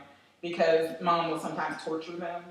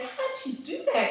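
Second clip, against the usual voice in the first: laughing question; 4 dB quieter, faster than usual. Retold or imitated. Asking mom, laughing.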